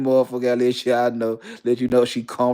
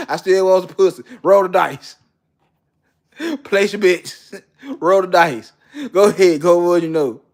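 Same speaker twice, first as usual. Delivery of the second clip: egging him on; 4 semitones higher, 4 dB louder than usual. Acted. Egging on the gambler.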